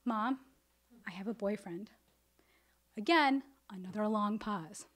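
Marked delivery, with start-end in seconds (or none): 0.0-1.9 small, sheepish admission, acted out; hushed mock confession to mom; hiding confession. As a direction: softly confess it from under the sheets. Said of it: "Sheet is over my face".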